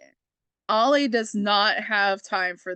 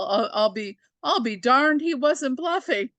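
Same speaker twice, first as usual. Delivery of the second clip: bright, much higher wholesome exclamation; squeaky-clean Disney Channel take, pitched up; Disney Channel version; 4 semitones higher than usual. Retold or imitated. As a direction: play it like a kids' TV sitcom dad. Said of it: "It's like the Disney Channel version".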